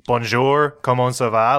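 put-on French words in an American English accent; non-French accent. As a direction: say the French greeting with your own American accent. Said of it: "am I supposed to keep my".

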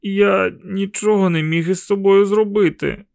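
put-on a boy excusing himself after vomiting; shaken boy. A narrator's reading. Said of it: "сказав я".

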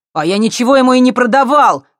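high, loud outraged denial; indignant shout. Acted. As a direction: blurt it out, wide-eyed and offended. Vitka denying, eyes bulging.

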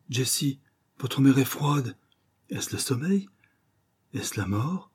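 hushed alarm at a cold hand; dawning dread. Acted. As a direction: ask fearfully, letting the voice drop back. Husband finds his wife cold.

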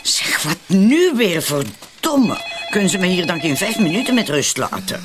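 fed up with the phone; annoyed, exasperated shout; irritated outburst. Acted. Phone rings again, irritated.

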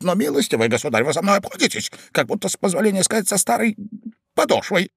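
high, pleading complaint; imploring, meekly aggrieved; meek despair. A narrator's reading. Ivan begging the rude young man for respect, meekly despairing. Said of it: "в припадке самого кроткого отчаяния".

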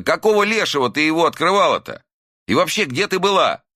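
high, frantic scolding; angry scolding. A narrator's reading. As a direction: scold her in frightened anger. Son berates mother.

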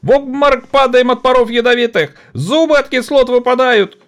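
high, bitter, tearful complaint; worn-out factory woman. Acted. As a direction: show the rotten teeth in despair. (измученная работница с горечью)

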